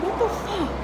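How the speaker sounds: high shocked outcry. Retold or imitated. Stopped by police on train, shocked high outcry.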